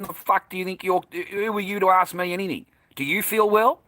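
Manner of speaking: high-pitched retold confrontation; affronted, challenging retort; indignant comeback. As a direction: fire the question back, pitched right up. Retelling his angry comeback at staff.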